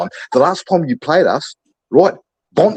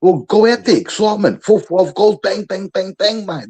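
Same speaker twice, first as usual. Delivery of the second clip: fired-up coach; 6 semitones higher than usual. Acted. Playing coach firing up players.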